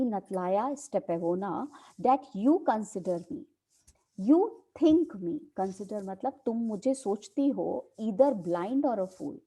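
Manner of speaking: slow, deliberate reading of a play line; dramatic play reading. Acted. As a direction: read it out slowly like a script. Teacher reads play aloud.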